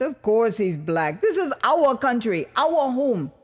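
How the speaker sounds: lightly voiced proud Liberian man; a hint of a patriotic official, firm; lightly voiced official telling an American visitor, proud.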